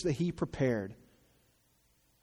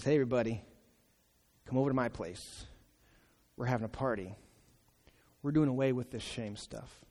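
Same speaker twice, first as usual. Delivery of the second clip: joyful invitation; faster than usual. Acted. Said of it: "and says".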